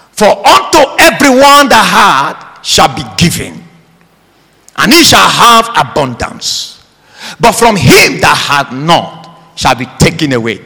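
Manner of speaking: declaimed verse, stretched key words; forceful scripture reading. Acted. Preacher reads the verse to the congregation, forceful declamation. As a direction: proclaim the verse to a full church.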